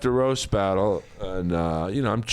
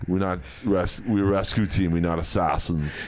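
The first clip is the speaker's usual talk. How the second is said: lower, lightly done Arnold voice; Schwarzenegger impression; 5 semitones lower than usual. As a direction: insist like Arnold playing it straight. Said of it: "pretty weak Schwarzenegger".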